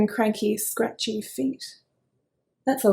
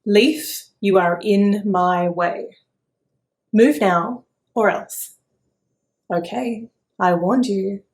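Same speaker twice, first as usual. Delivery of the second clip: a lightly voiced grumpy chicken, slow on the sun line; cranky chicken; 6 dB louder, slower than usual. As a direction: grumble like a cranky little hen. Chicken threatens the leaf.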